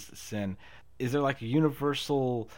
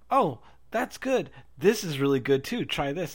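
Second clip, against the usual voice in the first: mock travelers; 4 semitones higher, 5 dB louder than usual. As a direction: lightly put on, pushing their coffee. Travelers offering their coffee.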